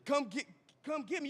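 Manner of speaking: high, hammed-up phone plea for rescue; comic urgent begging with a laugh breaking in; mock pleading. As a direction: beg a friend for a pickup, playfully panicked. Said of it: "make a phone call like".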